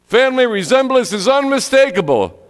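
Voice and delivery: high, loud, triumphant proclamation; booming preacher voice. Retold or imitated. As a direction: ring it out with a big grin. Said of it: "great big booming voice".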